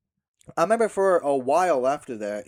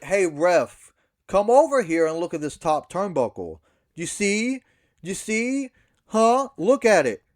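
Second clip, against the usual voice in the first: mock call to the ref; 2 semitones higher, 3 dB louder than usual. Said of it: "and then I'm like".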